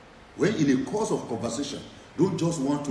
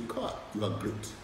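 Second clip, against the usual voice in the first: retold praise; 5 semitones lower, 5 dB quieter than usual. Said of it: "I would say".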